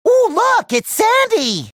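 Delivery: high, gushing delight at spotting someone; excited outburst. Acted. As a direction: squeal it out high and eager. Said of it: "I mean".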